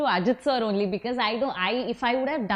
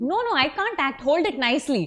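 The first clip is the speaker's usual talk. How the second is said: playful insisting; 4 semitones higher, 3 dB louder than usual. Retold or imitated. Retelling insisting on set, playful.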